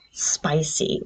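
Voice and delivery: breathy hushed whisper on spicy. Shown as a demonstration. Reviewer whispering to her viewers that the book is spicy, hushed. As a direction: whisper the word spicy like a secret.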